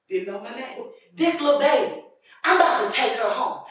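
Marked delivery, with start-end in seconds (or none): 1.1-3.6 lightly imitated drunken announcement, raised pitch; a drunk woman calling to her friends; drunk woman's voice. Drunk woman telling partiers about little baby, drunken holler. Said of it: "with her drunk voice".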